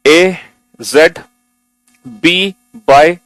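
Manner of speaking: steady sing-song alphabet chant; recitation demo. Shown as a demonstration. Teacher showing students how to read aloud, rhythmic recitation. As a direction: recite each letter and word as the model to copy. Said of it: "पहले मैं पढ़ के दिखाऊंगा".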